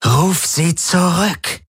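high, slow, drawn-out command; insistent order. A narrator's reading. Ylana ordering Galen, insistent drawn-out command. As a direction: stretch out each word as a demand.

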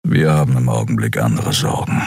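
low grumble from a beast-man; deep rumbling refusal; grumbling Kero. Acted. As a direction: brush off the topic with a growl. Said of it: "brummte er".

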